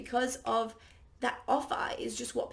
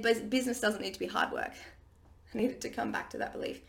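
ordinary delivery

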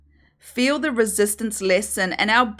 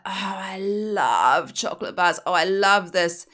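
exaggerated swooning. Host mocking how we gush over treats, in an exaggerated swoon. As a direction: swoon over the chocolate like it's precious. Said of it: "like, exaggerated way".

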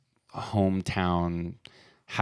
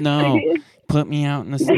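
hammed-up whiny plea, higher and louder; crying plea; 9 semitones higher, 6 dB louder than usual. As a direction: beg for snow like a sobbing kid. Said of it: "He was crying at the door".

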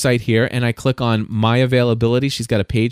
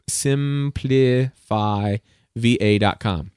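slow repeated plug; 2 semitones lower, much slower than usual. Shown as a demonstration. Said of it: "Shout out to".

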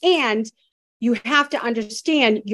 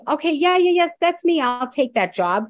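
eager acceptance; 5 semitones higher than usual. Pretend. Soul eagerly accepting its life.

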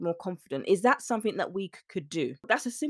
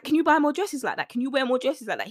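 lightly acted eager husband, pitched higher; higher-pitched, mock-excited begging; 5 semitones higher than usual. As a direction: imitate a husband eagerly pleading. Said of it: "He's excited".

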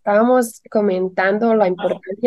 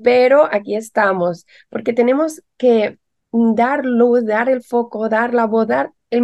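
voz de resfriado; 3 semitones higher than usual. Real, not acted. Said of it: "hoy con voz de resfriado".

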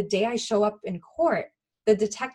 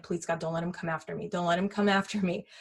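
frightened prayer; 3 semitones lower, 6 dB quieter, faster than usual. Retold or imitated. Frightened prayer while hiding.

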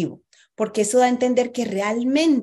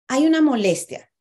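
annoying voice; 5 semitones higher than usual. Shown as a demonstration. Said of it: "siempre hablas así".

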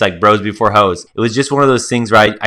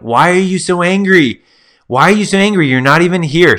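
higher-pitched, baffled pleading question; exasperated protest; 7 semitones higher than usual. Retold or imitated. Buddy protesting to his angry girlfriend, exasperated. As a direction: imitate an incredulous, put-upon boyfriend.

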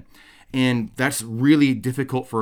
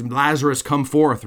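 mild mock shout, raised and higher; lightly acted summons, higher pitch; retold yell; 5 semitones higher, 4 dB louder than usual. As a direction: call it out as a half-hearted imitation of a yell. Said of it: "he yells".

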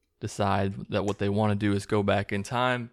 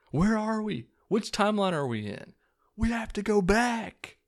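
hammed-up TV-drama desperation; mock panic; 12 semitones higher than usual. Viewer parodying the confusing last season of Lost, in mock panic.

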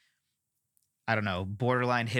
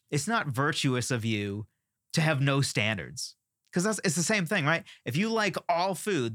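impassioned rant; 2 semitones higher than usual. Real, not acted. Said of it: "Excuse the impassioned rant".

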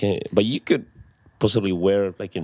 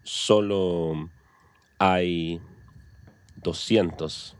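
slow careful modelling; much slower than usual. Shown as a demonstration. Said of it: "So we could say".

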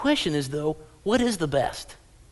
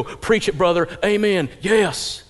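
mock amen corner; 2 semitones higher, 5 dB louder, slower than usual. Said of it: "Many of us go".

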